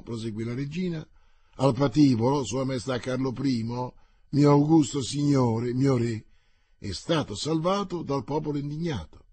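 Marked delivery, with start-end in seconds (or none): 1.6-9.3 exalted. Acted. La regina si esalta.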